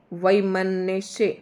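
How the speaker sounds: वैमनस्य stretched at half speed, vai-ma-na-sya; वैमनस्य slowed down for dictation; slow careful pronunciation. Shown as a demonstration. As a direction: pull वैमनस्य apart syllable by syllable, very slowly. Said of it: "इस तरीके से इसका उच्चारण करेंगे".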